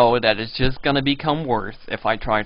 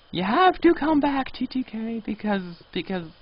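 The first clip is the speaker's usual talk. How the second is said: mock plea fading; 8 semitones higher than usual. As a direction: beg him back, losing steam. Pleading player to return.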